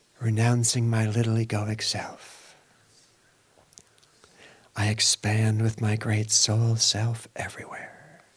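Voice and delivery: whispering, in a hushed whisper. Leading listeners through a repeat-after-me affirmation: in a whisper. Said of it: "In a whisper".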